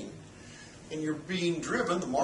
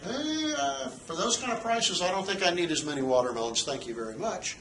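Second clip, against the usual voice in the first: lightly voiced buyer, starting much higher then settling; mock polite buyer turning down watermelons; teacher voicing a buyer put off by high prices; hesitant buyer; 4 semitones higher than usual. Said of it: "buyers are saying".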